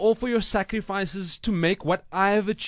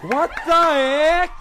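surprised; 8 semitones higher, 7 dB louder, slower than usual. Acted. Tyler surprised by award.

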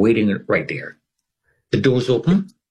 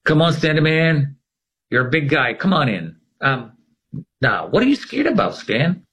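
coaxing coworker; 4 semitones higher than usual. Retold or imitated. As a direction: tease him into the elevator. Coworker calling from elevator.

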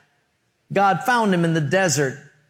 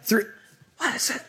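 rambling, clueless pilot announcement, higher than usual; airline captain; 5 semitones higher than usual. Acted. Captain Jones addressing passengers with no idea what's going on, rambling pilot voice. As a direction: play a befuddled captain on the cabin intercom. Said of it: "if he sounds like that".

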